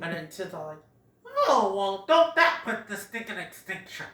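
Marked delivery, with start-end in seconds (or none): 1.5-4.1 Sid impression. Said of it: "If you like my impression".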